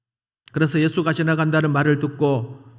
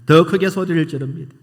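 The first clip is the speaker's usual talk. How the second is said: rising preaching emphasis; 4 semitones higher, 6 dB louder than usual. Real, not acted. Preacher building up.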